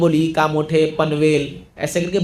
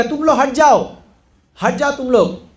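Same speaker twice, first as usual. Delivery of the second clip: higher-pitched, insistent command; ordering people away; 5 semitones higher than usual. Retold or imitated. Executioner telling villagers to move aside, commanding. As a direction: order the crowd to clear off.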